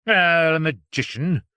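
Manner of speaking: loud, taunting address; challenging. Acted. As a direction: call him out with scorn. Doctor challenging Strange.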